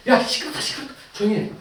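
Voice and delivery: mildly acted telling-off; scolding. Crowd rebukes the shouting blind man, lightly scolding. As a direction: hush a noisy man with some irritation. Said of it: "막 꾸짖고 조용히 해요".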